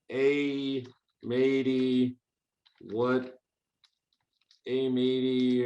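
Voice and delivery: gruff pirate greeting, drawn out. Shown as a demonstration. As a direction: hail them like an old sea pirate. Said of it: "stick with my pirate voice".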